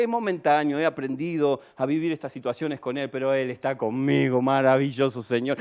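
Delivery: low, tranquil imitation of a trusting believer; creyente sereno. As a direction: reassure calmly, resting in faith. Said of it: "le preguntás a otra misma persona". (voz grave y serena de creyente confiado)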